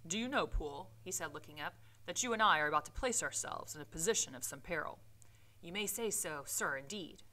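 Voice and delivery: measured read-aloud storytelling voice; story narration; reading the novel aloud. Acted. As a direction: read the Victorian prose with care.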